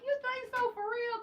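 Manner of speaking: a hint of high, soft bashful voice; shy disbelief. She answers the compliment with soft disbelief. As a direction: ask it sweetly, half not believing. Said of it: "And I be like".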